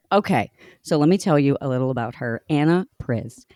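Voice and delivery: breathless and rushed from excitement; gasping between phrases, excited; shallow breathing. Real, not acted. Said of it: "I'm out of breath again".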